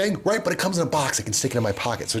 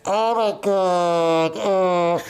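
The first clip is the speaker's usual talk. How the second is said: coughing in pain; 6 semitones higher, 4 dB louder, much slower than usual. Retold or imitated. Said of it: "I'm coughing".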